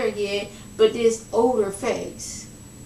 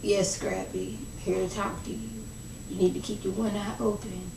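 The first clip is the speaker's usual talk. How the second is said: mock riddling; 8 dB quieter than usual. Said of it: "she's there like".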